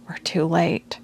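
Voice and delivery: breathless whisper of dread; horrified whisper. Acted. Sorla finding Houston collapsed on the floor, whispered. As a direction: whisper it as the hope drains out.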